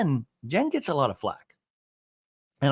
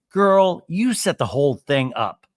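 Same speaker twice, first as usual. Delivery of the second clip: calling someone out; 2 semitones higher, 7 dB louder than usual. Pretend. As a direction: call her out at full volume, then ease down. Calls out Tamara's feigned ignorance.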